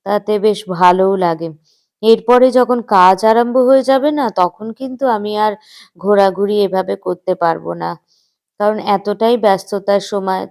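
talking with a toothbrush in mouth; while brushing teeth. Real, not acted. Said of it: "আমি brush করতে আরম্ভ করেছি".

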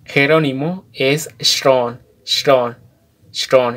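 "shron" with the O held a little longer; slightly long O. Shown as a demonstration. Teacher modelling the Kʼicheʼ name "shron" for Jerónimo, O slightly lengthened. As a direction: stretch the O in "shron", not too much. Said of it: "En la O alarga un poquito".

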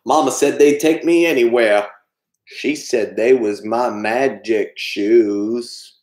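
slow, lightly voiced Forrest, quoting mama; a light Forrest recalling his magic shoes; Forrest Gump impression. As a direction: let the second line stretch out slowly. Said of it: "do the voices".

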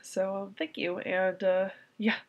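worn-out tearful whisper; crying, worn out. Real, not acted. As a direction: push out the words through tears. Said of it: "I can't stop crying".

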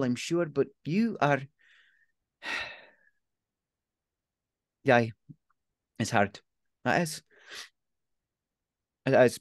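aunt reassuring her grieving nephew; softened aunt. Acted. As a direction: comfort him, awkward but sincere.

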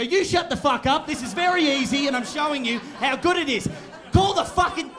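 high, loud, furious rant acted out; cracking the shits. Driver snapping at a friend then at the car's voice system, angry shouting. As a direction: escalate into an exasperated yell. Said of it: "I'll crack the shits out of her very quickly".

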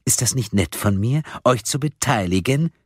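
high, mocking caller opening with a laugh. A narrator's reading. Anonymous caller taunts the four about choosing, laughing and mocking. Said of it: "Die Stimme lachte".

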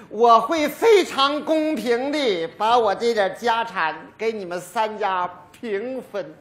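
ordinary talk, nothing marked

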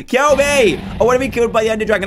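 high, loud kill me; loud plea. Real, not acted. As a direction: yell at the dragon to finish him. Begging dragon loudly.

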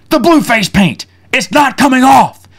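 high-pitched retold outrage; furious insistence. Speaker explaining the stuck blue paint, imitated furious insistence. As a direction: spell out the problem as an angry man would. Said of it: "he is furious".

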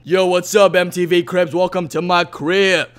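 a lightly voiced swaggering TV house-tour host; MTV Cribs host. Gamer giving a tour of his tree house, playing a cocky Cribs host. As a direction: show off your crib like a celebrity. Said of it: "MTV Cribs".

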